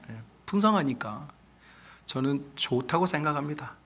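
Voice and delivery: usual speaking voice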